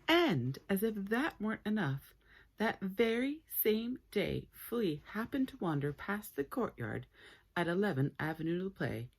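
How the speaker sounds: lively read-aloud storytelling voice; animated children's book reading; story narration. A narrator's reading. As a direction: read it like a bedtime story to kids.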